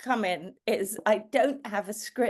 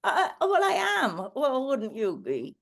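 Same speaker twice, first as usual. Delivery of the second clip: ventriloquist dummy voice; 5 semitones higher than usual. Acted. Monkey answers question about surprise.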